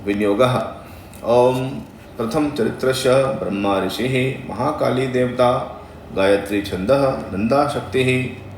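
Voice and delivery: measured, chant-like recitation of a mantra; slow devotional Sanskrit intoning. Shown as a demonstration. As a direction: intone each syllable carefully like a priest. Recites the viniyoga formula.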